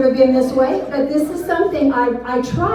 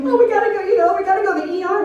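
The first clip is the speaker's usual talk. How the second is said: high, rushed urging; retold panicky hurry; urgent plea; 6 semitones higher, much faster than usual. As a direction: hurry it out, pitched up.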